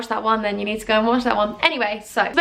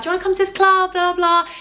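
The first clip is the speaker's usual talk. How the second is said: club promoter pitch; 8 semitones higher than usual. Retold or imitated. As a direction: reel passers-by in with a high-pitched pitch. Imitates herself touting the club.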